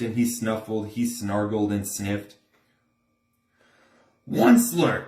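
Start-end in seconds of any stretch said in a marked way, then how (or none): 4.3-5.0 a hint of a raspy Lorax crying out, louder; lightly voiced creature calling the name; croaking cry. A narrator's reading. The Lorax calls out to the Onceler in a croaky cry. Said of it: "he cried with a cruffulous croak".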